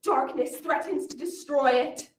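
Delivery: booming fantasy cartoon narrator intro; epic trailer narration. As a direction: announce the world like a film trailer.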